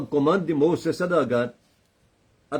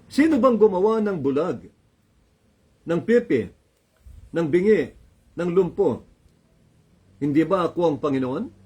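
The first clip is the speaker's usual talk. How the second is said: god rebuking; 3 semitones higher than usual. Acted.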